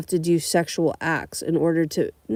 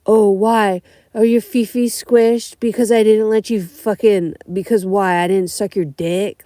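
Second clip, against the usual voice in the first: sarcastic comeback; 3 semitones higher, 5 dB louder than usual. Retold or imitated. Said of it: "I'm like".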